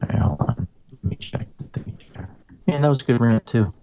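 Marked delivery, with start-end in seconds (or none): 0.0-2.3 signal breaking up; choppy connection; garbled audio. Real, not acted. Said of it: "Now you sound better".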